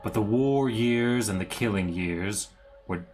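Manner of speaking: slow, solemn villain monologue; dramatic reading. Acted. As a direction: read it like an old curse. Reads Strahd's journal slowly.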